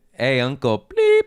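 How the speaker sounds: shouting out a name; loud call. Retold or imitated. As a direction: call out across the room. Calling out uncle's name.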